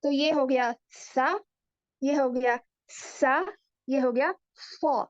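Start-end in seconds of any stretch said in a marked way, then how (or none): 2.0-3.3 सा said slowly and clearly with fatha; slow careful demo. Shown as a demonstration. Teacher showing letters with fatha, slow careful reading. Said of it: "अगर हम इस पे हरकत लगा दें". 3.9-5.0 सॉ said heavy and emphatic, slowly; heavy saad demo. Shown as a demonstration. Teacher contrasting saad with sa, slow heavy sound. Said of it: "अगर हम इस पे हरकत लगा दें".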